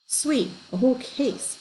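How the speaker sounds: slow, greedy relish. A narrator's reading. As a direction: savour the words greedily. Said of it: "Dana said greedily".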